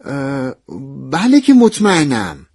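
a drawn-out, emphatic assurance after faltering; hesitant, then insistent. Acted. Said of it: "کمی مکث کردم و گفتم".

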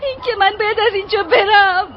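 crying plea. Acted. Maid tells lover she's expelled.

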